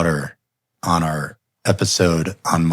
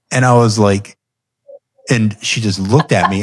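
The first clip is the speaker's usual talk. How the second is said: ordinary talk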